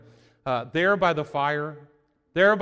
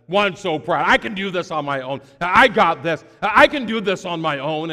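cocky boast; 6 dB louder than usual. Acted. Proud Peter voiced.

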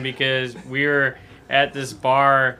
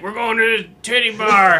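higher, louder mock-gleeful quote; excited announcement; 8 semitones higher, 5 dB louder than usual. Friend after the jackpot, excitedly announcing the plan. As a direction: imitate a friend thrilled by a win. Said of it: "And he's like".

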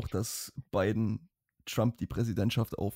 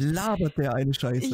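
scornful; 3 semitones higher, 3 dB louder than usual. Real, not acted. Mocking Biden.

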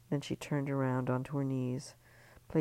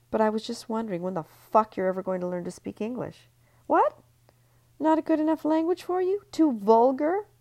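high, loud, jeering attack; drunken tirade; 9 semitones higher, 9 dB louder than usual. Acted. Ellie berating Marie Claire, loud and jeering. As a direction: let the rage spill out.

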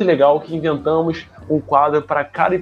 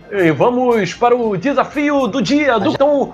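hyped game show announcer; TV host voice; 6 semitones higher than usual. Acted.

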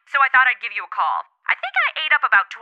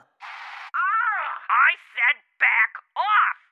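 irritated warning; 3 semitones higher, 3 dB quieter, much slower than usual. Acted. Stranger bothering her.

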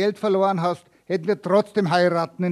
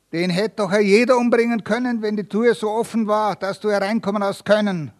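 higher, louder desperate protest; 5 semitones higher, 4 dB louder than usual. Acted. Accused Michael objects to the court, desperate. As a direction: plead urgently that anyone could have done it. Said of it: "wandte Michael verzweifelt ein".

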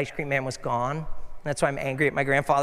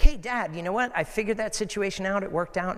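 excited son; 4 semitones higher than usual. Retold or imitated. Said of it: "I was like".

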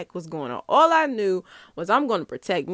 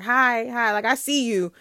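sarcastic; 2 semitones higher, 3 dB louder than usual. Retold or imitated. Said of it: "I was not being my usual kind self".

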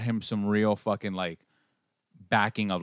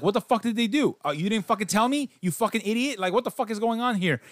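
higher pitched mock exasperated yell; mock outrage; 8 semitones higher than usual. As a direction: rant at the screen in disbelief. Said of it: "And I'm like".

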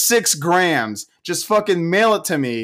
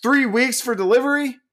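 high-pitched indignant rant; worked-up screaming; 4 semitones higher than usual. Real, not acted. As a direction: rant in raised, exasperated disbelief. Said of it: "I'm the one that's screaming".

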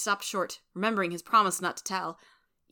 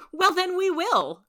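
high, loud, drawn-out merry exclamation; merry cry; 12 semitones higher, 8 dB louder, slower than usual. A narrator's reading. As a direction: cry it out gaily, slow and high. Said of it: "cried Joe with a merry laugh".

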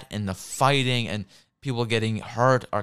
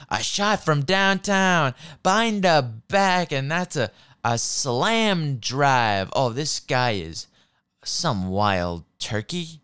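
lightly mocked play-by-play, drawn out; punning commentator; slower than usual. Mocking commentators' weird puns, hammed-up announcer. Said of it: "all these weird pun bullshit".

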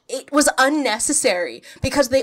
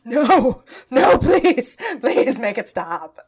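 mock pleading; 6 dB louder, slower than usual. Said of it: "I was just like".

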